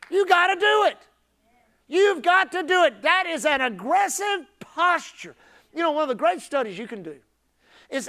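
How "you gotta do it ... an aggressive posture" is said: high, loud, emphatic charge; forceful exhortation. Real, not acted. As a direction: drive it home to the congregation. Preacher urging congregation hard.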